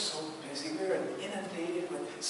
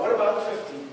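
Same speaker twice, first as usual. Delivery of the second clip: eager, climbing pleas, much higher and louder; a raised, excited bargaining voice; Abraham bargaining with God; 8 semitones higher, 12 dB louder, faster than usual. Acted. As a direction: haggle hopefully, number by number. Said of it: "this long discourse with, uh, that Abraham has".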